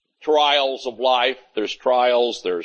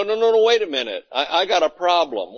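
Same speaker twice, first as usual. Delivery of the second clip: higher, fast patient cutting in; no no, wait, hurry to stop him; urgent protest; 4 semitones higher than usual. Pretend. Patient stops a doctor from ending the visit, higher and fast.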